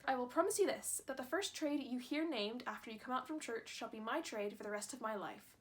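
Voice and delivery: a clumsy put-on Irish accent for the boy; hammed-up Irish lilt, badly done. Boy promising his mother, in a bad Irish accent. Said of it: "that was a really bad Irish accent".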